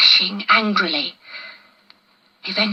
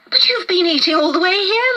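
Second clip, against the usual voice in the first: laughing; 10 semitones higher than usual. A narrator's reading. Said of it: "laughed Dusty".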